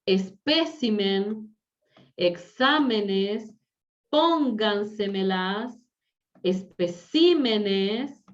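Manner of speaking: slow, each word spelled out syllable by syllable; teacher dictating accented words slowly; stressed syllable shown. Shown as a demonstration. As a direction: lean on the stressed syllable of "espécimen" and "especímenes". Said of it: "Especímenes o espécimen son palabras diferentes".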